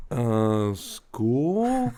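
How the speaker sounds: unsure guess that lifts sharply at the end; imitating puzzled child. Daughter guessing an answer for dad, puzzled.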